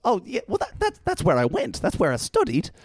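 beam like a cheesy celebrity; Hugh Jackman impression. Host asks for the celebrity, hammed-up Hugh Jackman voice. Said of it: "an impression of Hugh Jackman".

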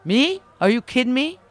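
high, loud disbelief; you can't be serious, me?; incredulous. Real, not acted. Incredulous at being called clean.

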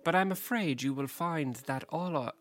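lightly put-on English accent; a touch of English-accented alien; slight Venusian accent. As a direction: play the Venusian as a mild English gent. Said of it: "slight accent".

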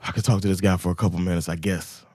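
low, soft, quick aside; reluctant inner thought. Retold or imitated. Storyteller in his head to defuse things, reluctant muttering. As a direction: concede it quietly, tailing right off.

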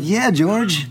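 high-pitched, gung-ho reply; thrilled yes-man, voice way up; eager agreement. Retold or imitated. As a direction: re-enact being totally on board, pitch jumping up. Acts out his keen reply to George.

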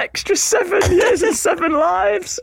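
words squeezed out through laughter; giggling through the cat facts; laughing while talking. Real, not acted. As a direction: try to finish the sentence while cracking up.

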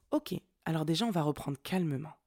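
re-enacted composed, measured reply; voix calme, posée. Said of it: "j'ai pris une voix très calme, très posée, très basse". (voix très calme et posée)

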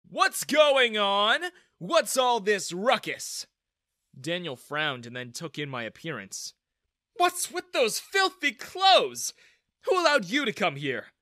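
high, loud, slow scolding; haughty manager. Acted. Bank manager Daniel berates shabby visitor, haughty and loud. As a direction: look down your nose and scold.

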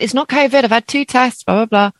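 high, breezy imitation of the hairdresser; dismissive, brushing off the worry; imitating hairdresser. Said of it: "And she said".

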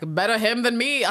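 high, loud laugh after a joke; mock self-amused laughter. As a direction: imitate someone cracking up at their own joke. The speaker laughs at own retold joke.

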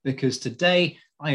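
rough snarl in the voice; a rough snarling edge; snarly voice. Real, not acted. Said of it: "the snarl in my voice".

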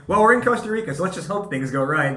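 high, breezy, careless shrug of a voice; mock carefree. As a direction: toss it off like nothing could go wrong. Mocking their own carefree attitude.

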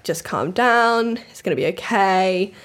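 slow, soothing words; calm her down gently. Retold or imitated. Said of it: "he's kind of like".

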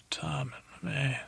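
hushed awestruck whisper. Acted. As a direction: let the wonder steal your voice. Sir Pounce awed, hushed.

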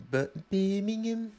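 lightly put-on Brummie accent, drawn out and high. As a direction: stretch it out in a mock Birmingham accent. Trying out a named British accent.

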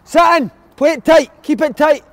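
light manager pep talk; mock manager orders. Mock manager team instructions.

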